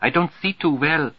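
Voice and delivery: put-on high-pitched German-accented secretary. A narrator's reading. Secretary without her glasses to Roger, German accent. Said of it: "German accent, all right".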